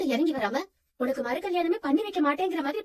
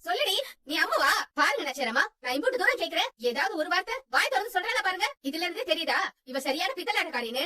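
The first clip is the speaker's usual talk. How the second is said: raised, higher accusing voice; heated accusation; 4 semitones higher than usual. Acted. Mother accuses the girl before Nachiyaramma, heated and higher. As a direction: expose the impostor, insistent.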